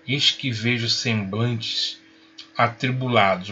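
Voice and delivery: slow, mock-solemn declamation. Teacher teasing pupils about troubled faces, mock solemn. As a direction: declaim it slowly, playfully grand.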